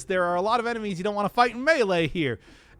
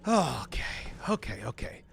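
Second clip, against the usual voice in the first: whispered under the breath; whispering; 5 semitones lower, 5 dB quieter than usual. Real, not acted. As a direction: whisper it to yourself. Quietly calming self mid-fight.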